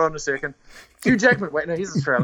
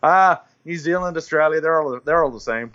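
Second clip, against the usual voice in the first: bad American accent; 3 semitones higher than usual. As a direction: imitate an American brushing it off, badly. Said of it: "I'm gonna do a bad American accent".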